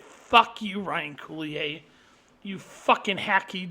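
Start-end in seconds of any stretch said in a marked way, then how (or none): 0.0-1.8 angry shout. Real, not acted. Ranting at director Ryan Coogler, furious shout. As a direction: spit it at him in real anger.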